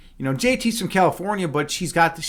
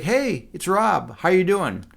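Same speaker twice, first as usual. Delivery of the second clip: imitating nervous friend; slower than usual. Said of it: "you were nervous out of your mind".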